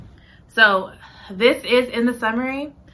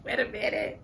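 mock alarm; 3 semitones higher, 7 dB quieter than usual. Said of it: "had to close it and be like".

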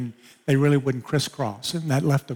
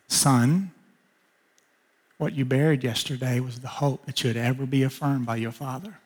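softer, gentle voice of God; tender fatherly voice; 5 dB quieter than usual. Retold or imitated. God comforting the grieving son in his car, soft and tender. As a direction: speak it gently like a loving father.

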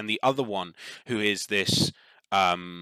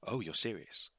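stifled laugh; 4 semitones lower, 12 dB quieter than usual. Acted. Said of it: "It's kinda like laughs".

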